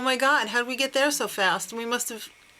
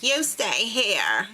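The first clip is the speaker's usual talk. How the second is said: mock pissed-off command; slower than usual. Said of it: "she was pissed".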